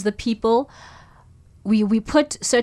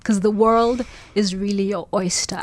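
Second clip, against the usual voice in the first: whispering. Real, not acted. Soft, gentle advice to her younger self.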